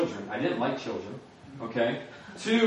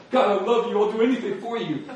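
higher, louder, fervent declaration; ecstatic worship cry; 7 semitones higher, 5 dB louder than usual. Retold or imitated. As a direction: pour it out like at worship.

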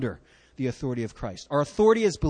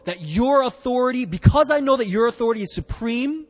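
higher, louder fervent confession; fervent centurion; 6 semitones higher, 5 dB louder than usual. Acted. Preacher voicing the centurion's faith to Jesus, fervent and loud. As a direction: profess it with rising conviction. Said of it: "he's saying this".

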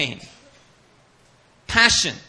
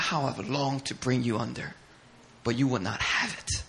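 soft lament; 2 semitones lower, 5 dB quieter than usual. Retold or imitated. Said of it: "He said".

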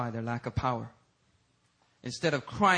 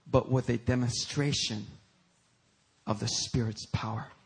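slow, low, deliberate reading; scripture reading; 3 semitones lower, slower than usual. Real, not acted. Preacher reads Paul's words to congregation, measured scripture reading. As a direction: weigh each phrase with long pauses.

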